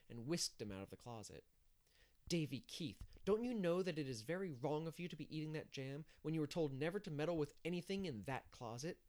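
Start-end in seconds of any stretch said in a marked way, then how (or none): 2.3-9.0 scolding. Acted. Anne scolding Davy over jam.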